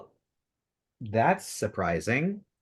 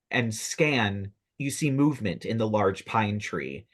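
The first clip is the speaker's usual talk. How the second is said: measured, dramatic scene-setting; game master narration. Acted. Game master describes a tree attack to players, dramatic narration. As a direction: narrate the action with punchy key words.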